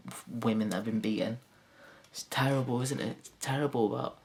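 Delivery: normal talking voice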